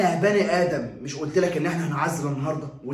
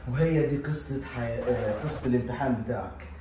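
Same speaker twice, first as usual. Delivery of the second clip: chuckling, slow and softer; a father laughing through the end of his story; 4 semitones lower, 4 dB quieter, slower than usual. Real, not acted. Laughing while narrating.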